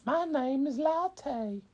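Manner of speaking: put-on high, slow sweet girl dragon voice. Girl dragon greeting a rapper, high and slow. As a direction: introduce herself in a high little voice. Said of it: "she says".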